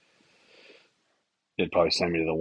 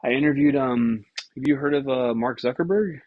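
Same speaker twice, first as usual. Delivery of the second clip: mock name-drop; 6 semitones higher, 4 dB louder than usual. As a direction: drag out the name-drop, higher and louder. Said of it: "He's like".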